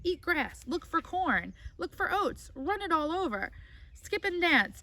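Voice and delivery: lightly voiced goose, eager and bossy; a hint of a breathless farmyard goose; chattering goose. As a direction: rattle off the goose's list with glee.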